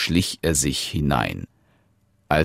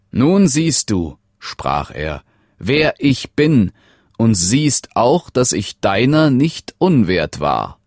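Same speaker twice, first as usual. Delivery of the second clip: higher and louder, proudly revealing; proud young prince; 5 semitones higher, 3 dB louder than usual. Acted. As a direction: show her who you truly are.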